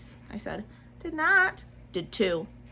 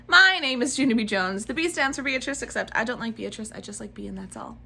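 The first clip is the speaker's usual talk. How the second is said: lightly voiced little girl narrator; Junie B. voice; 2 semitones higher than usual. Reading to kids as Junie B., lightly childlike. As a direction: tell it as a chatty kindergartner.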